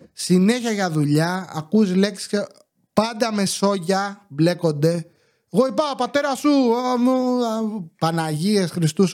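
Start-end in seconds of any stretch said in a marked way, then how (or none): 5.5-7.8 high, fast squabbling, no real volume; mock neighbour yelling. Neighbour arguing about relatives, high rushed mock yell. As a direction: imitate a rowdy family row. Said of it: "όλη την ώρα φωνάζουνε".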